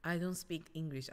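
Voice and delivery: "I don't speak English" slowly and smoothly; polished, unhurried "I don't speak English"; over-practised English pronunciation. Shown as a demonstration. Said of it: "これの発音がとんでもないの". (「I don't speak English」をゆっくり滑らかに発音)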